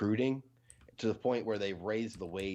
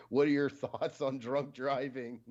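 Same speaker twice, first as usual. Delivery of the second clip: slow, higher faux-earnest question; mock innocent question; 5 semitones higher, 3 dB louder, slower than usual. Streamer reading a chat question aloud, mock innocent. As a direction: read it like a sincere query. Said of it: "and they ask".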